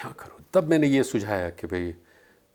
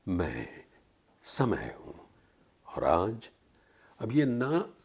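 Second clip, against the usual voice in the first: Samay's crawling voice; 3 semitones lower than usual. Shown as a demonstration. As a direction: creep through each phrase like Time itself speaking. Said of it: "रेंग रेंग के बोल रहा हूँ मैं".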